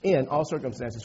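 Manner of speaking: "in" picked out as the key word; stress on IN. Shown as a demonstration. Preacher repeats the verse to explain it, stressing "in". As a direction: lean on "in", the rest lighter. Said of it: "the emphasis is in".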